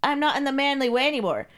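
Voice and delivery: high, meek, pleading voice; stammering submissive servant. Acted. Carl thanks his mistress and confesses, timid. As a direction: stutter thanks, then confess meekly.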